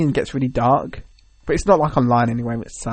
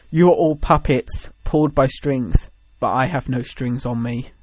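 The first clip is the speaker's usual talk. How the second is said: creepy robot voice; 3 dB quieter than usual. Retold or imitated. Quoting Ultron's Pinocchio line from the trailer, lightly creepy robot. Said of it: "in a really creepy, like, robot voice".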